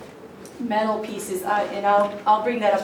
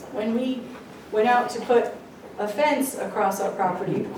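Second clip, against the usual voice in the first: talking around gum in mouth; chewing gum; 2 semitones higher than usual. Real, not acted. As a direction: speak with gum in your mouth. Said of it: "I have gum in my mouth and it's not helping".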